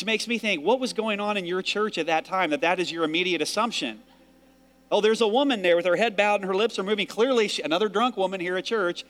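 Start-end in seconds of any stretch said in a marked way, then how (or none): 4.9-9.0 louder, higher, faster scoffing priest; mocking Eli. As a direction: scoff like a suspicious priest jumping to conclusions. Priest's scornful assumption voiced.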